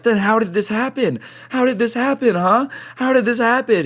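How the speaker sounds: high mock old lady interrogating; demanding old lady. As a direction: pitch up and badger the kid.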